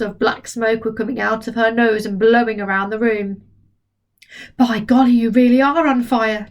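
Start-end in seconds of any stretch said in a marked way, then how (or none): 4.6-6.5 put-on louder, amazed boy. George sees smoke from Grandma's nose, amazed. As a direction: gasp it out.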